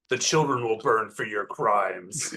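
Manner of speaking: slow, measured threat called out; acted yell. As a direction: pronounce doom slowly, only a mild yell. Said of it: "I will yell out to the gloam".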